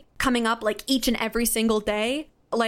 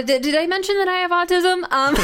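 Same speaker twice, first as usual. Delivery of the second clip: higher and louder, breaking into a laugh; laughing aside; 8 semitones higher, 5 dB louder than usual. Real, not acted. Answering the host's question about success, laughing wryly. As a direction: laugh through the wry question.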